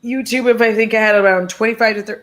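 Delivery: hiccuping while talking; with hiccups. Real, not acted. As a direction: hiccups breaking up the words. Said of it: "I'm sorry about the hiccups".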